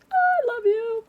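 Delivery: squealing love to her viewers; high emotional outburst. Real, not acted.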